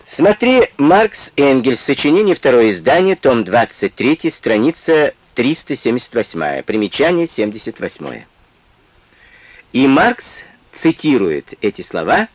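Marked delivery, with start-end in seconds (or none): 0.1-8.3 dictating. Shown as a demonstration. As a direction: read it out for students to write down. Citation read out like dictation.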